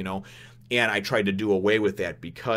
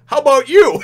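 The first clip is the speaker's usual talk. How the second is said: high, loud unison jab; all round on the villain at once; the group turns on Enel with a loud high jab; group retort; 13 dB louder than usual. Retold or imitated. All turn on Enel together.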